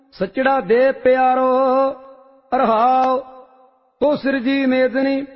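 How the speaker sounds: steady, measured recitation of a sacred hymn; devotional scripture recitation. Real, not acted. Reciter chanting Vadhans hymn to the congregation, reverent and measured. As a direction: intone each line with reverent calm.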